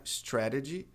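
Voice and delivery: "Strategy" with the middle T as a tapped R; flapped T. Shown as a demonstration. Teacher comparing words of one root, flapped T. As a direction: tap the second T in "Strategy". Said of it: "é a mesma raiz".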